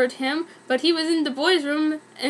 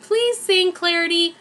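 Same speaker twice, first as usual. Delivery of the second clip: desperate plea; 4 semitones higher than usual. Acted. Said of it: "She looked so desperate".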